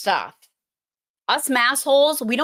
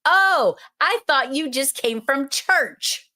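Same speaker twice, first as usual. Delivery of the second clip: mock surprised realization, raised pitch; 5 semitones higher than usual. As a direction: play the penny dropping. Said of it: "And she goes".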